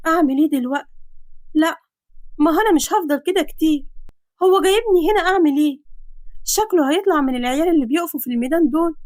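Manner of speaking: put-on restless, worried girl's voice; anxious girl. Girl pacing her room at night, anxious and restless. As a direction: pace and fret aloud. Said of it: "ومش مريحة نفسها وهي بتقول".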